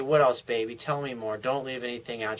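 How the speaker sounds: soft, low coaxing; soothing boyfriend. Pretend. Coaching soothing words to a girlfriend.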